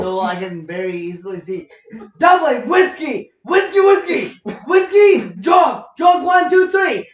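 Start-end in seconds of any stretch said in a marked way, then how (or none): 2.2-7.1 shouted play call in a put-on Scottish cadence; mock Scottish snap count. Friend imitating a Scottish quarterback calling the snap, shouting.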